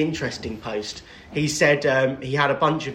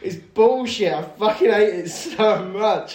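heated, pitched-up complaint; frustrated rant; 5 semitones higher, slower than usual. Real, not acted. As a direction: spit out the frustration. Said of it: "went on a rant".

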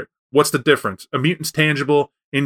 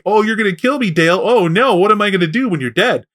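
higher, sing-song sarcastic mockery of kill; mocking sarcasm; 4 semitones higher than usual. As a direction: scoff at the threat with mock fear. Mocking reply to a threat.

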